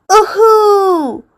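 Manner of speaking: high, loud laughing whoop; joyful shout. A narrator's reading. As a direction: whoop with delight on a bumpy ride. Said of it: "Pete shouts".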